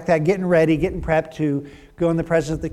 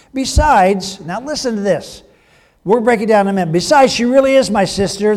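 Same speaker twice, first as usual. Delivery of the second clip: louder, earnest defensive explanation; Abraham justifying himself; 3 semitones higher, 5 dB louder than usual. Acted. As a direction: lay out the excuse like a man caught out.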